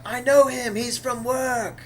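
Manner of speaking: loud, high shout with a drawn-out end; retold scream. Retelling Thor shouting in the middle of the arena, mock scream. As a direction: holler it out high, stretching the last words. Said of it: "he screams out".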